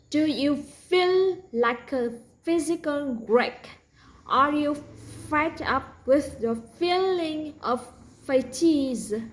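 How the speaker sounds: mock TV ad voice; ad read. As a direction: sell the medicine cheerfully. Mock medicine ad.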